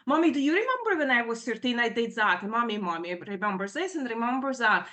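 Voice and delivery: quick retold needling; hurried, mildly accusing mimicry; passive-aggressive snapping. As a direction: imitate a daughter pestering mom with the past. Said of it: "passively aggressively snapping".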